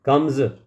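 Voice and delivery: "कम्स" ending in a buzzed z; voiced z ending. Shown as a demonstration. Teacher modelling the sound of z for learners, voiced z ending. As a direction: say "कम्स" with a final z sound, like kamz. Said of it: "कम्स नहीं बोलेंगे".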